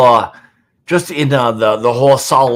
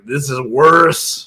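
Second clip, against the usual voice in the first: smelling something awful; slower than usual. Real, not acted. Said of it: "This smells like rotten grapefruit".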